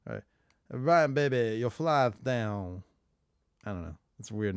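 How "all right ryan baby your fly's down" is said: layered impression. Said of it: "Vince and then Dusty doing my dad".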